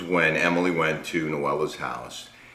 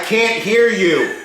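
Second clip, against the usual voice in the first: calling out; 6 dB louder than usual. Pretend. Caller can't hear the whisper.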